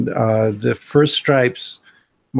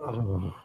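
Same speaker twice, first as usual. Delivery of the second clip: long weary sigh, nearly silent; exasperated sigh; 3 semitones lower, 12 dB quieter than usual. Real, not acted. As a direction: sigh out all your exasperation. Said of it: "that was the most exasperated sigh I've ever heard".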